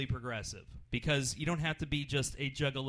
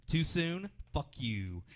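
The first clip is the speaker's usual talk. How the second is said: understated imitation of a comic's tag line; deadpan catchphrase; 3 dB quieter, slower than usual. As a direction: toss off the guy's catchphrase flatly. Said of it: "After every joke, he said".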